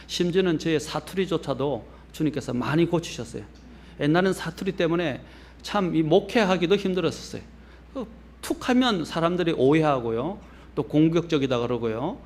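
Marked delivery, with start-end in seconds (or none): none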